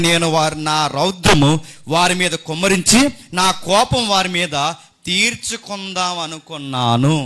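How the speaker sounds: declaimed Bible passage in steady phrases; sustained, even-toned preacher's reading; scripture reading. Acted. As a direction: read out God's words formally to the congregation. Reads God's words from scripture.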